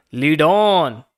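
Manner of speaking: loud, eager command; eager cry. A narrator's reading. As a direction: shout it greedily. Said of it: "cried the rat".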